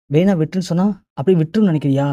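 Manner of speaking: indignant villain, lightly acted; acted confrontation. Villain confronts man in acted quarrel.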